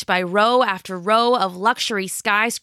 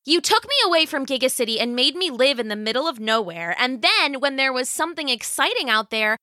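put-on higher, fast, bitter girl; resentful teen rant; 5 semitones higher than usual. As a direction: unload years of grievance. Jill's resentful outburst at mother.

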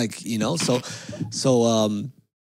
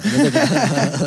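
drawn-out loud another; 8 dB louder, slower than usual. Real, not acted. Restarting story loudly.

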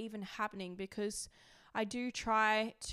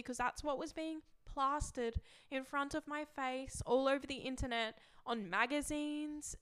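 close to tears; 4 semitones higher than usual. Real, not acted. Remembering the magazines that hurt her, tearful. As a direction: keep the tears just held back.

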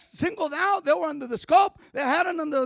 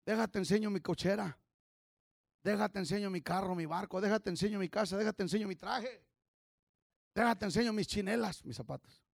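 showing off; 6 semitones lower, 6 dB quieter than usual. Retold or imitated. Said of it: "la gente está diciendo".

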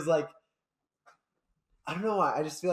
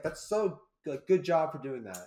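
excited parent; 2 semitones higher, slower than usual. Retold or imitated. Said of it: "I'd get excited and be like".

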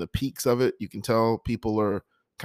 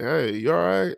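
higher-pitched retold friend's question; imitated concerned check-in; 7 semitones higher, 4 dB louder than usual. Friend hearing him start whimpering on the drive, concerned check-in.

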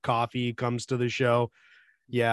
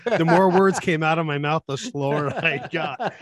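tape slowing down; 3 dB louder than usual. Shown as a demonstration. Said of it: "it sounded like a tape slowing down".

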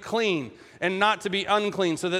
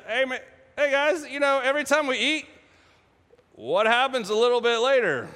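lightly acted, higher-pitched joking with the guys; humorous teasing; 4 semitones higher than usual. Jesus joking with teenage disciples about eating, playful. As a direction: let the pitch ride up playfully. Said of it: "hear the humor that Jesus has".

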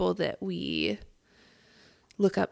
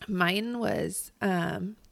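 groggy morning voice, just woke up; much slower than usual. Real, not acted. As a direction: speak with a rough morning voice. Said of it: "I feel like I have morning voice right now".

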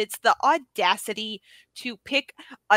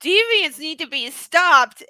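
stern robot voice; 6 semitones higher, 8 dB louder, slower than usual. Retold or imitated. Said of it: "Connor who's like".

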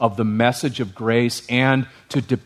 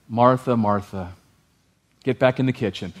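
mock stern Jesus; 4 semitones lower than usual. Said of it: "No, he didn't say that".

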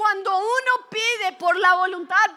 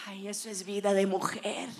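blissful sigh; 10 semitones lower, 10 dB quieter than usual. Retold or imitated. Girl luxuriating on the salon bed.

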